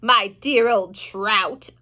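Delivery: slow, scornful aunt; a hint of a cried-out insult; Aunt Sponge. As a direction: sneer it slowly at her sister. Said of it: "Aunt Sponge cried out".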